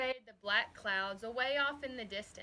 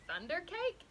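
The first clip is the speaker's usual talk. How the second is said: stammering; 8 semitones higher than usual. A narrator's reading. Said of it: "I stammered".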